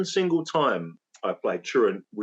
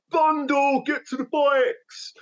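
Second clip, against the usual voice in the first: panicked urging; 11 semitones higher, slower than usual. Retold or imitated. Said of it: "So we're like".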